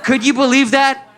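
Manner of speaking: high, disbelieving outburst; upset wife. Retold or imitated. Wife to husband about the vote, mock outrage. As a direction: imitate a wife demanding a shocked reaction. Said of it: "Y me despierta brava".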